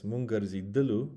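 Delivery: Mungărzidalu with the stress on the final lu; stress on the end. Shown as a demonstration. Teacher showing students where the accent falls in Mungărzidalu. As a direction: land the accent on the last syllable of Mungărzidalu. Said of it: "the accent's on the end".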